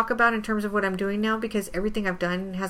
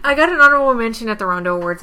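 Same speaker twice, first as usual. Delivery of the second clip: louder, fast, proud; proud announcement; 2 semitones higher, 10 dB louder, faster than usual. Real, not acted. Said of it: "Say it again".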